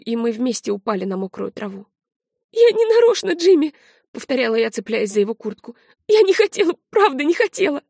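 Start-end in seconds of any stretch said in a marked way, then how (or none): 2.5-3.7 higher, louder, frantic plea; begging the friend to believe her; girl clinging to her friend, pleading in panic; desperate pleading. Acted. Girl pleads after the killing. 6.1-7.8 higher, louder, frantic plea; begging the friend to believe her; girl clinging to her friend, pleading in panic; desperate pleading. Acted. Girl pleads after the killing.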